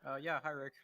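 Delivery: faint voice over a hissy mic; quiet, distant line with static; quiet voice loud hiss. Real, not acted. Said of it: "You're super quiet".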